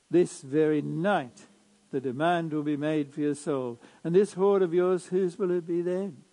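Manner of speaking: measured liturgical reading voice; Gospel proclamation. Acted.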